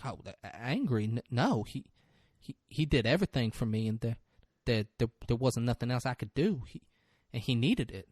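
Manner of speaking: low, softly stammering witness; halting witness. Acted. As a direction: stumble gently over the opening words. Retelling a timid witness's halting testimony.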